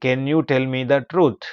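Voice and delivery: slow model reading. Shown as a demonstration. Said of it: "teacher models English sentence slowly".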